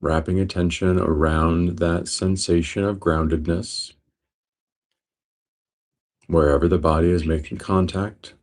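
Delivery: steady meditation guide, long pauses between phrases; guided meditation. Real, not acted. Teacher guiding listeners into breath awareness, guided meditation. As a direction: guide them calmly, leaving space after each phrase.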